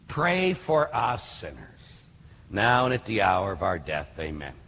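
slow, reverent prayer voice fading out; prayer recital. Acted. Reciting the Hail Mary.

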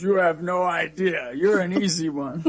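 teasing, laughed-out comeback; retold laughing reply. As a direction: quote it with a chuckle breaking in. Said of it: "he was laughing".

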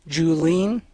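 normal talking voice

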